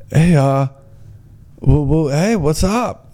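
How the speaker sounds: light mock Minnesota accent, rising and drawn out at the end; hesitant attempt at a Minnesota lilt; imitated Minnesota-like accent. Guide says hello to visitors, lightly imitated Minnesota accent. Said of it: "Like they're from Minnesota or something".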